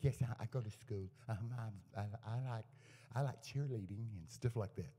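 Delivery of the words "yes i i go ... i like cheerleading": softly imitated little girl; sweet little voice. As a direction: lightly voice a calm, sweet child. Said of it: "that sweetest little voice like that".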